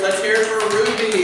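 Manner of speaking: loud game show intro; announcer voice. Acted. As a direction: announce the contestant. Announcing contestants.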